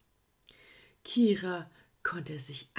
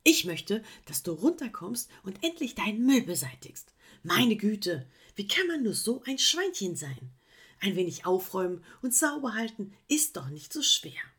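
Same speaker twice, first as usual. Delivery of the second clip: firm demand; 2 semitones higher than usual. Acted. Koala demanding the sloth come down and tidy. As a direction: insist firmly. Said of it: "sagte die Koala-Dame".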